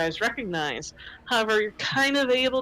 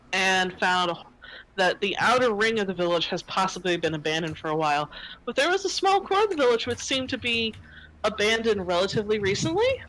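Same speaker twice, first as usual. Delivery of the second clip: ordinary delivery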